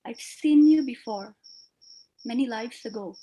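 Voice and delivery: poetry recitation. Acted. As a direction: let each line breathe, gently. Recites her own poem.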